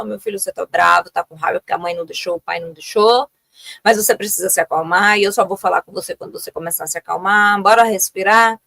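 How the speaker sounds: put-on low, calm voice naming the child's anger; calm parent. Shown as a demonstration. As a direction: soothe the child and invite a breath. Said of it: "Vamos nomear o que é que tá sentindo?". (mãe nomeando a raiva do filho, tranquila)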